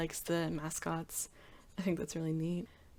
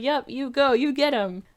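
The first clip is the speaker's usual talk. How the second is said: high, loud playful egging on; teasing cheer; 7 semitones higher, 9 dB louder than usual. Retold or imitated. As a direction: egg him on teasingly. Mizuki cheering on.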